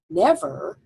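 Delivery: NEVER, the NEV hit hard and the ver light; stress on first syllable. Shown as a demonstration. Teacher stressing the first syllable of Never. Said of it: "It's a trochee. The accent is on the first syllable".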